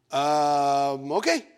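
drawn-out um, then a lifted okay; hesitant agreement. Retold or imitated. Told to go to that room, hesitant. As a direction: agree reluctantly, unsure. Retold uneasy reply to officer.

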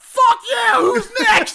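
high, loud, triumphant yell; Eddie. Retold or imitated. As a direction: bellow it like a challenge to all comers. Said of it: "Eddie starts yelling out".

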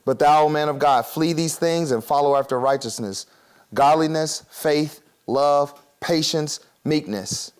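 measured pulpit reading of the verse; solemn Bible reading; scripture reading. Acted. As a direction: read each virtue out as a list. Reads scripture aloud.

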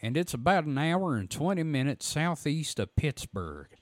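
lightly voiced Southern reader; a hint of a drawling storyteller; Phantoms and Monsters voice. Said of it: "my Phantoms and Monsters voice".

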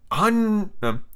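high sidekick voice; high-pitched henchman; eager Smee. Acted. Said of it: "he cried eagerly".

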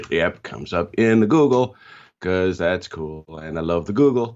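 booming loud over the mic; really loud. Real, not acted. Guest joking about the Google, really loud in the headphones. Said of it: "Is he really loud".

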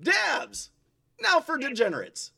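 lightly voiced mock advert tag line; positive-spin slogan. Shown as a demonstration. Showing how to put positive spin on dabs, mock advert. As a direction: sell it as a product slogan, name first, then pause. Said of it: "gotta put a positive spin".

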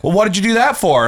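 imitating a prying coworker; mocking annoying coworker. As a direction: needle them like a nosy coworker. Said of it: "someone was like".

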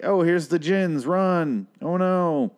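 hammed-up high panic, a bit slow; mock-scared cry as fleeing characters. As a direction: squeal it like a cheesy horror victim. Mocking the characters fleeing the djinn.

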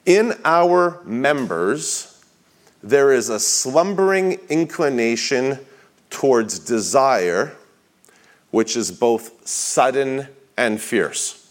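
slow, weighty reading with long pauses; emphatic quote reading. Acted. Preacher reading a Bonhoeffer quote to the congregation, slow and emphatic. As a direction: read it deliberately, phrase by phrase. Reads a book quote aloud.

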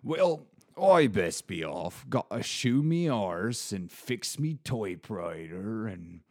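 a hint of a plain-spoken rustic yokel, slow in places; lightly voiced rustic old local. A bored narrator slips into a lightly voiced rustic local, slow in places. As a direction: lightly play a homely old local chatting about his pub. Rustic pub-goer character.

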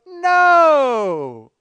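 loud, high mock crowd shout. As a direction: call it out like a whole crowd. Crowd answers the Pope.

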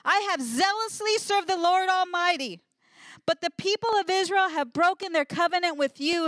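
desperate prophet crying out; Elijah's lament. Acted. Elijah complaining to God.

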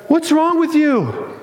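high-pitched, jubilant party voice; excited angels. Acted. Angels telling weeping Mary heaven is having a party, excited. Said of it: "they're excited".

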